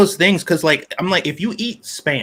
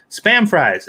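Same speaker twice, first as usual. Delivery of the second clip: mock excitement; 7 semitones higher, 5 dB louder than usual. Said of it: "she is like".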